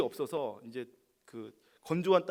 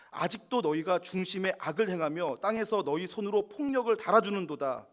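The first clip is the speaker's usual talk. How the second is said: louder, rising indignant reading; angry rebuke; 3 semitones higher, 6 dB louder than usual. Acted. David rebuking the corrupt rulers, loud and angry. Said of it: "다윗도 막 화를 내요".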